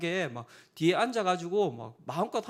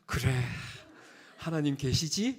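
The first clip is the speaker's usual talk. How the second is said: low, drawn-out knowing reply, lightly acted; triumphant older brother; 4 semitones lower, slower than usual. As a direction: lightly imitate a vindicated big brother. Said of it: "형이 의기양양하게".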